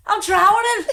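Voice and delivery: high-pitched mock Scouse; hammed-up Scouse cry for help; Liverpool accent. Pretending to swim and drown, high Liverpool accent. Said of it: "pretending I'm from Liverpool".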